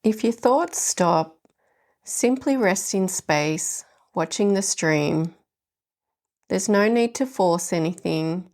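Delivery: gentle, unhurried meditation guidance with long pauses; guided meditation. Acted. Host guiding listeners through the leaves meditation, gentle meditation voice. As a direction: ease the listener into stillness.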